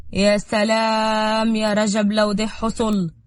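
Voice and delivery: slow, drawn-out wistful relish; savouring the idea. Acted. Diab dreaming greedily of Ragab's plan, savouring. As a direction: stretch the first words out longingly.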